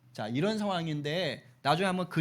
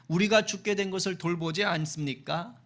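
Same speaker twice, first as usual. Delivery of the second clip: mildly accusing question, raised at the end; confrontational questioning. Acted. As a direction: challenge him as if demanding an answer. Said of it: "어조가 거의 따지듯이 묻는 거예요".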